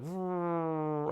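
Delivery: drawn-out, high vroom; imitated van engine. Hearing dad's van pull up, imitated engine noise. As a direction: mimic an approaching van engine. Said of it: "hear my dad's van".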